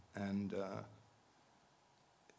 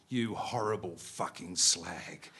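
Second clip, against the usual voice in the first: slow, lower, wounded insult; slow lower insult from a bloodied man; hurt snarl; 3 semitones lower, slower than usual. Acted. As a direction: snarl it through a broken nose. Bloodied Bunny insults Charlotte.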